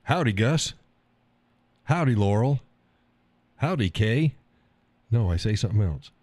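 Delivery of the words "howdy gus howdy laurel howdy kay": cowboy howdy. Shown as a demonstration. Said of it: "I don't go".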